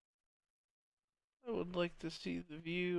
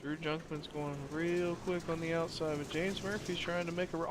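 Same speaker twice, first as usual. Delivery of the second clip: normal talking voice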